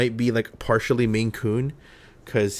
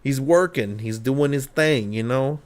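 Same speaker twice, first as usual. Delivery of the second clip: East Coast wise guy vouching for a pal; put-on East Coast accent, lightly done; 3 semitones higher than usual. Shown as a demonstration. Owner excusing her odd dog, East Coast accent. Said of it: "from the East Coast".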